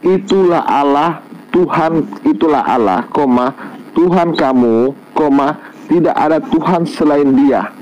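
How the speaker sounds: slow deliberate recital with spoken commas; slow reading. Shown as a demonstration. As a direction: read it slowly, word by word. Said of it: "saya baca pelan-pelan".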